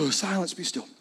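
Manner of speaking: lightly voiced, just-woken command; understated, half-asleep hushing of a storm; groggy Jesus. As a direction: say it offhand, as if barely awake. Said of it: "You're not eloquent in that moment".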